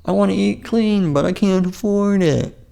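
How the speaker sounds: mild whiny impression of a viewer; imitated viewer. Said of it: "You might be thinking".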